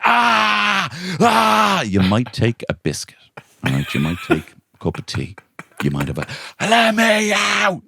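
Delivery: put-on a kid bursting to escape; desperate kid. The child cutting off the campsite man, in a high frantic whine. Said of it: "the kid's like".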